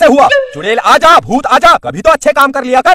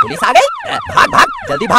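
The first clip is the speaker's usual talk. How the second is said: panicked shout; faster than usual. Acted. Thief hears the police siren and yells to run, panicked. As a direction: yell to flee in panic.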